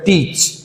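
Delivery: टीच with a long ee; long vowel. Shown as a demonstration. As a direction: hold the ee in टीच. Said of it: "large या long sound में".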